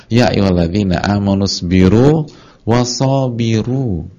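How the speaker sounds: slow, recited Arabic verse; slow Quranic chant; Quran recitation. Shown as a demonstration.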